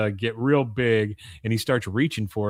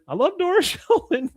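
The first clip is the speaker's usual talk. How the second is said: very high parrot voice; put-on parrot screech; mynah bird imitation; 4 dB louder than usual. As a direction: demonstrate bird talk in a high squawk. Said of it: "I bought this mynah bird".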